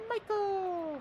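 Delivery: high, loud call. Real, not acted. Player calling out to a turtle, loud and high. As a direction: yell the name across the room.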